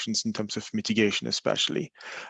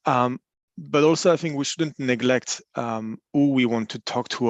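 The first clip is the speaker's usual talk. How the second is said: raised voice to be heard; speaking up. Real, not acted. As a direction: speak up a little over a noisy room. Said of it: "can you speak up a bit".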